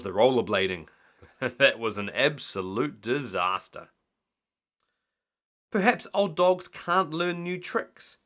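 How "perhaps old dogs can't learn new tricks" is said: teasing. A narrator's reading. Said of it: "teased Missus Grinling".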